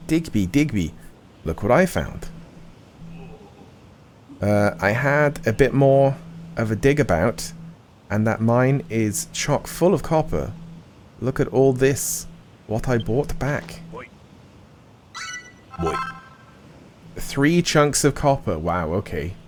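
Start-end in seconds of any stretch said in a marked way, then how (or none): 0.1-15.9 cheerful Cockney miner, lightly done. Acted. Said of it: "What's with the Cockney?". 17.1-18.6 Cockney. Acted. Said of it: "What's with the Cockney?".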